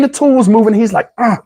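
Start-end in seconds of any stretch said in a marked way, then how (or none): 1.2-1.4 imitated straining grunt; short mimicked grunt of effort; effortful grunt. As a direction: grunt like someone working at something. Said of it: "he's doing all these sounds".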